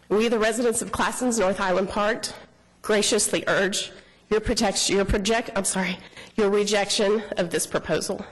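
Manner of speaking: shaky, nervous voice; quivering voice. Real, not acted. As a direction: voice trembling with nerves. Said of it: "I apologize for my quivering voice".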